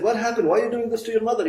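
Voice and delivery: acting out an alarmed demand for answers; retold challenge. Sheikh questions the sons at the graveside, retold indignant challenge.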